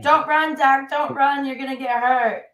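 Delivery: high-pitched panicked sports fan plea; mock panic, pitched well up; freaking-out fans. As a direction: imitate fans frantically begging their player. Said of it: "were freaking out".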